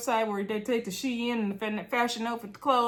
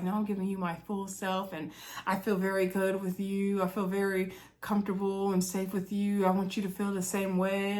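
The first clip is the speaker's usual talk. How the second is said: softer, hushed imitation of a tender man; soft sweet talk; 6 dB quieter than usual. Chaz cuddling Vanessa on the sofa, softly imitated. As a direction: murmur it like pillow talk.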